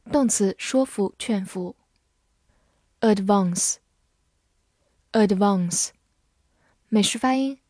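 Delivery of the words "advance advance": slow, clear vocabulary drill; slow drawn-out. Shown as a demonstration. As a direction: stretch each syllable slowly. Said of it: "vocabulary review read-out".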